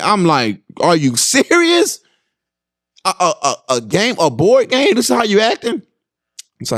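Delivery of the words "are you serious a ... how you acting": pin him down over a board game; incredulous scolding. Retold or imitated. Dad to son crying over a board game, incredulous.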